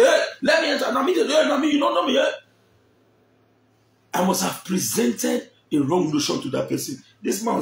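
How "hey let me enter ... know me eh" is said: mock arrogant celebrity.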